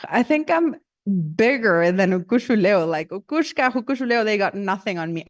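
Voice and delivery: mock boast, pitch jumping up at the start; cocky boasting. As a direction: brag like a vain bird who thinks he beats the gods. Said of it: "he gets so cocky".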